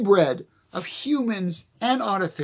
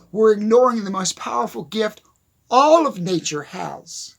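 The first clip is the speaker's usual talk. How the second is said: louder, pressing the point; 5 dB louder than usual. Real, not acted. To viewers, hammering his point home loudly. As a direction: push it out with force. Repeated line, second take louder.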